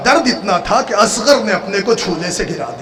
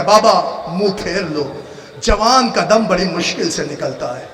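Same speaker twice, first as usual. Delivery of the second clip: tearful plea. Acted. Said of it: "Akbar रो के कहता".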